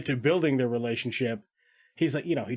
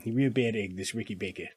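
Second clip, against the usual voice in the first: put-on New Zealand accent; 3 semitones lower, 5 dB quieter, faster than usual. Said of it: "everybody has that delightful accent".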